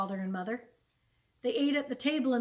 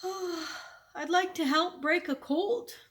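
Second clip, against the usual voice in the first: put-on tentative, high, slow boyish wish; cautiously hopeful, pitched up; venturing; 7 semitones higher, much slower than usual. A narrator's reading. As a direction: float the hope slowly in a higher voice. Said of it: "Almanzo ventured to say".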